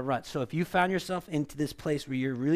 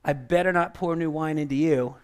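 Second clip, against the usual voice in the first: voicing the Lord; 6 dB louder than usual. Pastor voices God warning the church, raised and firm. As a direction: speak as God cautioning his people. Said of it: "the Lord is saying".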